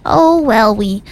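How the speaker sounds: put-on slow, lightly crinkly old lady; a hint of a crinkly granny. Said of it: "Say that in an old crinkly voice".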